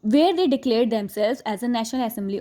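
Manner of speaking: slow, deliberate reading of the English text; textbook read aloud. Acted. Teacher reading the chapter to students, slow and deliberate. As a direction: read each phrase slowly for the class.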